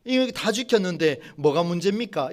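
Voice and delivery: lightly voiced curt, annoyed reply; a hint of a sulky rich official talking back; mildly irritated. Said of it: "퉁명스럽게 또 짜증스러운 말투로". (살짝 퉁명스럽고 짜증 섞인 말투)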